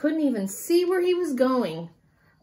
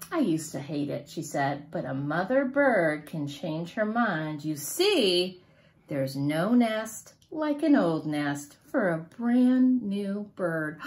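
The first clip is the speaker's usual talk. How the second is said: gentle mother bird; 7 semitones lower than usual. A narrator's reading. Mother bird voiced in story.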